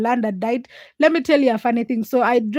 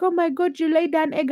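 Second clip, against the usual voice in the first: higher-pitched happy exclamation, acted out; excited delight; 6 semitones higher than usual. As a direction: retell the delighted surprise at a pet's gift. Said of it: "I was just so excited".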